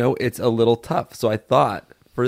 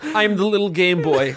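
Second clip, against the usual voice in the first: raised, announcer-like character voice; pitched-up silly game host; Game Boy voice; 6 semitones higher than usual. Pretend. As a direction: play a goofy game-show host persona. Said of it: "a specific way of talking that the Game Boy has".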